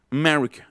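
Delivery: "America" with first A nearly lost; schwa. Shown as a demonstration. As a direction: say "America" as "uh-MER-icuh". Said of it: "es pura schwa".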